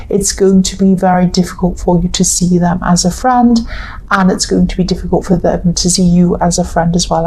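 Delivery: tired, croaky voice; a hoarse, croaky voice from tiredness. Real, not acted. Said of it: "I'm really getting a croaky voice".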